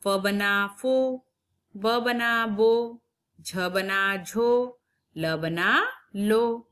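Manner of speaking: each syllable drawn out slowly, teacher style; slow syllable building. Shown as a demonstration. Teacher slowly sounds out syllables for young pupils. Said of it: "इसका उच्चारण देखिए कैसा होगा".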